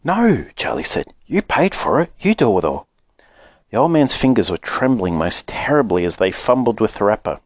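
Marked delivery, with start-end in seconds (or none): 0.0-2.9 put-on higher boyish voice, firm; a boy refusing kindly; insistent boy. Charlie refusing grandpa's offer, higher boyish insistence.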